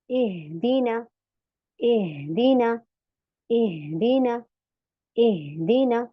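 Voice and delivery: इहदीना with the हा from the throat; example word demo. Shown as a demonstration. Teacher modelling इहदीना for students to repeat. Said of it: "जैसे example".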